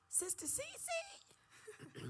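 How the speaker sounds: high, slow, loud crying prophecy; prophet's voice. Retold or imitated. Prophet Sister Ann rebuking Cece on the phone, high and wailing. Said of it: "this prophet named Sister Ann called me".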